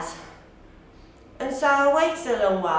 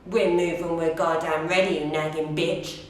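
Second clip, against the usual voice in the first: lower, lightly voiced rude shopper; a hint of an irritated stranger's voice; imagined rude shopper; 6 semitones lower than usual. Shopper snapping back at her for asking, lightly voiced low retort. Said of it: "They'd probably say something like".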